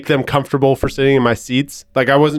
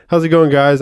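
mock-friendly, higher hello; overly friendly greeting; 5 semitones higher, 4 dB louder than usual. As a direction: put on a too-nice greeting to strangers. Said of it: "but I was like".

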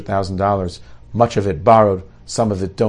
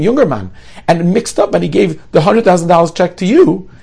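high and loud, building to the reveal; loud, excited storyteller's punchline; animated climax; 8 semitones higher, 8 dB louder than usual. Acted. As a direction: hit the twist with full force. Rav explains the name mix-up.

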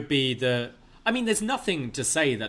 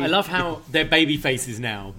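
normal talking voice

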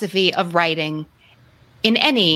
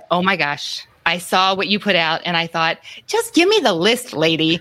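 lightly voiced gushing reader, higher; excited reader quote; 4 semitones higher than usual. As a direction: quote a thrilled fan with rising excitement. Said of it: "the thing we've heard from readers is".

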